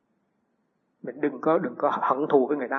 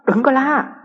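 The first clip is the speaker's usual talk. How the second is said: retold hush; 9 semitones higher, 4 dB louder, slower than usual. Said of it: "tôi nói".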